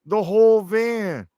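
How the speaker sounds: hurried high correction, pushing not; retelling his own quick high protest; high, pleading denial. Retold or imitated. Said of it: "I'm like".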